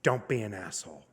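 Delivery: sincere advice. Retold or imitated. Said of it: "she looked me in the eye, and she said".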